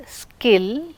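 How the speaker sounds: "skill" with no puff after the k; unaspirated k. Shown as a demonstration. Teacher showing k sound, skill without aspiration. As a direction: keep the k of "skill" free of breath. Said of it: "no aspiration".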